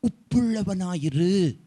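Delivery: slow, drawn-out decree; solemn command. Retold or imitated. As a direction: stretch the command as God's word. Voices God's command to the believer. (இழுத்து நிதானமாகச் சொல்லும் கட்டளை)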